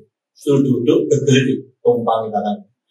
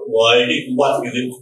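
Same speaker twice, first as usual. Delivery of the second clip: ordinary talk, nothing marked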